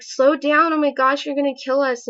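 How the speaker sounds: reliving the terror of the swerving car, voice up and loud; frightened cry at a reckless driver; retold panic. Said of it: "I was super scared".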